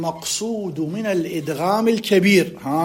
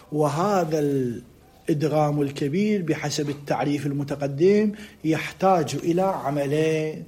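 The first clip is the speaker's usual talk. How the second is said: slow, drawn-out dictation; measured classical Arabic dictation; slower than usual. Real, not acted. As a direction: read it out slowly for students to write, stretching the words.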